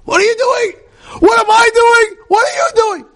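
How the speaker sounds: high, loud shouting back; loud angry shout. Retold or imitated. Other person shouting back in a quarrel, loud and angry. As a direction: throw the anger right back. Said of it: "She goes loud too".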